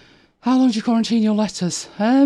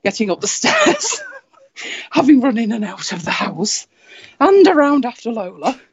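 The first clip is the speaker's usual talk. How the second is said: out of breath. Real, not acted. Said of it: "not sound like I'm out of breath".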